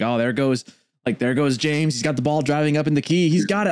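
lightly voiced play-by-play caster, pitch climbing; game caster. Joking about casting games midway, mock sportscaster. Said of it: "I'll start casting the game".

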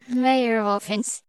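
lightly slurred name, consonants smudged; softened, slurry consonants; slurry reversed-speech imitation. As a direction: blur the name as if played backwards. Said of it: "I thought it was quite slurry".

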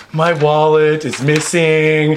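slow, drawn-out lament, lightly hammed up; milk the loss a little, slowly; theatrical dismay. Man pretending to find his purse empty, mock dismay. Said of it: "totally was into it".

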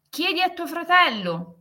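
a dismissive reply pushed up high; character voice. A narrator's reading.

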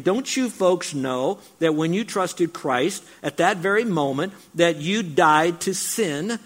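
preacher paraphrasing Paul with rising force; pleading paraphrase. Retold or imitated. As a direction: drive it home to the congregation. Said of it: "He's basically saying".

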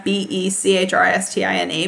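letters "B E C H R I S T I N A" said one by one; spelling it out. Shown as a demonstration. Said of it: "at B Christina".

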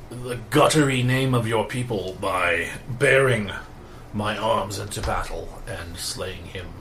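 grave, slow dying knight's farewell; solemn old hero. Acted. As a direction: speak like a noble dying warrior. GM voices the dying NPC.

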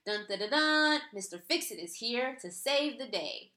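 loud fanfare then booming hero voice; mock superhero. Mocking her husband as the arriving hero, hammed-up superhero voice. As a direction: ham up a rescuing superhero entrance. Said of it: "went into Superman mode".

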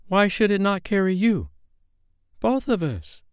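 high-pitched, urgent proposal; eager exclamation. A narrator's reading. Peter and Wendy planning escape by kite, high and eager. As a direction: press the idea in a high voice.

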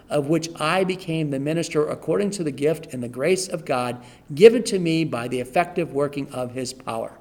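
reading while running out of breath; breathless at the end of a long sentence. Real, not acted. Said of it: "'cause I'm out of breath".

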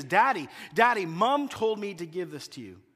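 child's call repeated, lightly voiced; little girl calling daddy; a hint of a child calling; daughter calling again. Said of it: "Again, she says".

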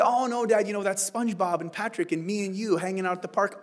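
a hint of an eager kid explaining; lightly voiced child. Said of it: "And they say".

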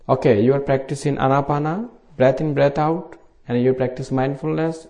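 normal talking voice

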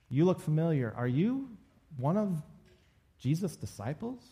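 spaced-out, mildly suspicious asking; questioning servant girl. Retold or imitated. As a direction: lightly act a curious, probing onlooker. Voicing servant girl questioning Peter.

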